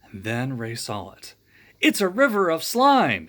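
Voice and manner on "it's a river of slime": panicked high yell. A narrator's reading. Ray yelling as he finds the slime river. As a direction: shout it up high in alarm. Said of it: "yelled Ray".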